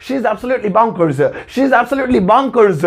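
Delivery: very slow, word by word; slow, deliberate teaching read; slow model sentence. Shown as a demonstration. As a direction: spell it out slowly for learners. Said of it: "अब आप सुनेंगे और बोलेंगे".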